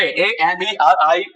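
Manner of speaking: teacher spelling ए एम ई आर आई सी ए slowly, one letter at a time. Shown as a demonstration. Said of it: "America, ए N".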